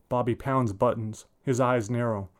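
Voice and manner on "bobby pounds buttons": ordinary delivery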